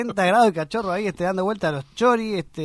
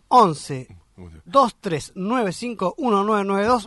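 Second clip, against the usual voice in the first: slow dictation; 2 semitones higher, much slower than usual. Real, not acted. Repeating phone number slowly.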